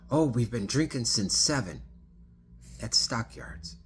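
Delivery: chirpy boast about drinking; animated confession. Retold or imitated. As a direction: passenger cheerfully admitting to drinking. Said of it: "she's talking like this, very animated".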